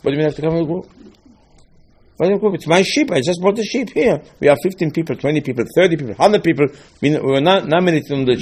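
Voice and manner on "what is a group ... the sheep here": higher, puzzled voice of a worshipper; baffled worshipper. Acted. Worshipper protesting to the rabbi, higher and puzzled. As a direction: play the confused man with his sheep.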